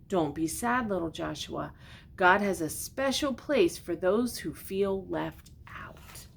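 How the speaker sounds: a gentle cow comforting the lamb; kind old cow. Acted. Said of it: "Abigail would turn to him and say".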